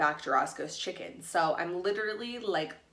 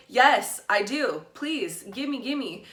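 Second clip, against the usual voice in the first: higher and louder, laughing eagerness; eager excited yes; 5 semitones higher, 6 dB louder, much slower than usual. Retold or imitated. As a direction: grab the offer like hitting the jackpot. Offered vodka, eager reply.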